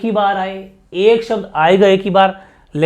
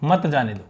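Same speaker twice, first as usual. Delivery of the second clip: "मत" tied to "जाने दो"; "मत जाने दो" एक साथ; 3 semitones lower than usual. Shown as a demonstration. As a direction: say "मत जाने दो" as one falling phrase. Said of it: "comma लगा दिया". ("मत जाने दो" बिना रुके)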